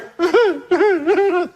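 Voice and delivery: high, hammed-up sobbing noise; mock crying wail; imitated bawling. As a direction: mimic a caller bursting into tears. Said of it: "She's bawling on the phone".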